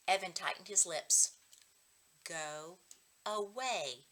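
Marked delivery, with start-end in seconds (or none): 2.2-4.1 far softer, inward, unspoken; thought voice. Acted. Evan silently wishing his sister would leave, hushed. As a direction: keep it inside, barely there.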